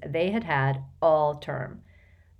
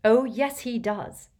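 loud, high flash of anger; flaring up; 6 semitones higher, 3 dB louder than usual. A narrator's reading. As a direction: flare up hotly. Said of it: "flaring up at Harry".

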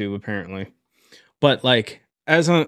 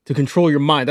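roughly attempted British accent; lightly put-on British accent, laying down a rule; half-formed British accent impression; Andrew Tate. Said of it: "I'm still working on the accent".

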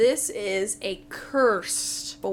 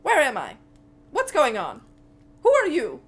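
higher, louder kobold, confused; bewildered Meepo; 5 semitones higher, 8 dB louder than usual. Acted. Kobold suddenly turns on the party, bewildered. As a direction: blurt out each question as if just coming to. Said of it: "looks at you guys and goes".

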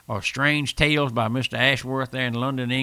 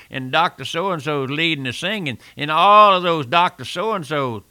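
mocking; 5 dB louder than usual. Real, not acted. Mocking high society religion.

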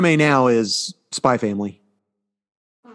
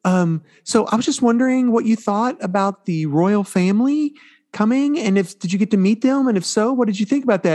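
imitating reporter; 9 semitones higher than usual. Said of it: "they go".

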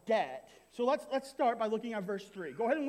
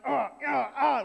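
sputtering coach; 4 semitones higher, 8 dB louder than usual. Retold or imitated. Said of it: "trying not to cuss".

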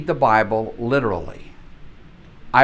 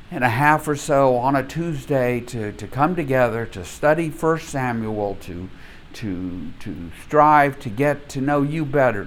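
calm, reverent prayer voice; a teacher leading a class prayer, reverent; opening prayer. Acted. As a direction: pray over the class gently.

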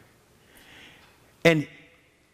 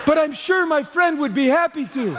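higher, put-on sore-throat voice; mock hoarse excuse; 10 semitones higher than usual. Senior pastor feigning a sore throat to dodge reading, mock croak. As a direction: fake a sore throat to get out of it.

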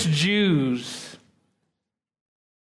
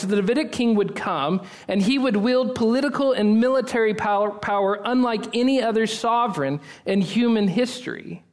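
higher, rising preacher build; preaching; 5 semitones higher than usual. Real, not acted. Sermon climax building up.

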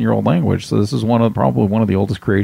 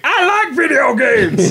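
mock excited gamer; slower than usual. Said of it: "And Maya's like".

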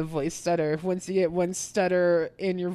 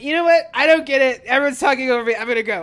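snotty complaint; 4 semitones higher, 6 dB louder, faster than usual. Retold or imitated. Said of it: "I was being a real asshole".

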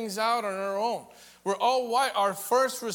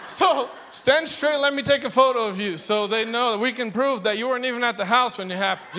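excited instructions; 3 semitones higher, 6 dB louder, faster than usual. Retold or imitated. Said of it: "And I'm like".

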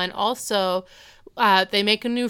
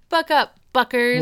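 loud, high cheerleader call; peppy cheer; 5 semitones higher, 7 dB louder than usual. Retold or imitated. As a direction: pump them up like a cheerleader.

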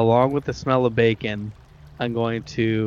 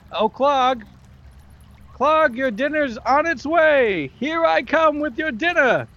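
high, eager goblin singsong; a goblin cheerfully announcing dinner, way up high; Yeemik goblin voice; 13 semitones higher than usual. Acted. Illusion goblin calls Clark to dinner in a high goblin voice. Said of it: "make my voice into Yemix".

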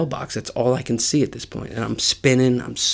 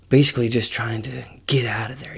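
whispering. Real, not acted. Hiding in garage from cops.

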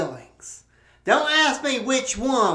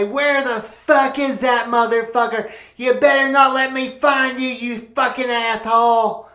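angry threat; 3 semitones higher, 4 dB louder than usual. Acted. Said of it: "hear the fat woman say".

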